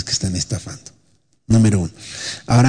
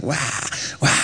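mock baby cry; 7 dB quieter than usual. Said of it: "El bebé está llorando".

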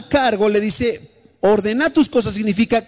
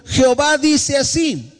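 slow solemn decree; 4 semitones higher, slower than usual. Acted. Preacher reads God's command aloud.

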